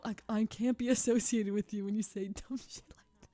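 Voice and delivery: mock embarrassed whisper, laugh breaking in; imitated whisper. Friend disowning me in public, imitated whisper.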